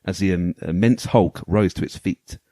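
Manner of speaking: dramatic storybook narration; story voice. Pretend. Host reading the game manual's story to co-hosts, story voice. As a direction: read it out like a pulp sci-fi tale, measured and weighty. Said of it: "I'm gonna put my, my story voice on".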